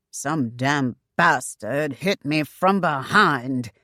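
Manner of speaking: slow, low angry growl. Acted. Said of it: "Ruark growled low".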